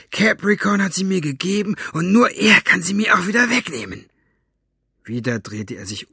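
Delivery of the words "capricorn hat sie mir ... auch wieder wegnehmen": defiant henchman. Acted. Basta defies Mortola angrily.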